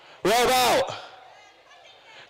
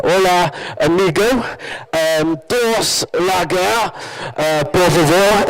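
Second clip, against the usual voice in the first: put-on slow Spanish in a French accent; 6 dB louder, slower than usual. Tourist ordering at a holiday bar, French accent. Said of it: "in a strong French accent for some reason".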